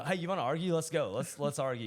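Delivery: eager fighter. Retold or imitated. Joking about being a fighter not a lover, playfully combative. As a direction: playfully goad someone into a debate. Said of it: "you're a fighter, not a lover".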